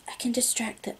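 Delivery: very soft, hushed voice; whispered. A narrator's reading. Girl squeezing her friend's hand, whispering. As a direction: whisper it close by. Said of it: "Ella squeezes my hand and whispers".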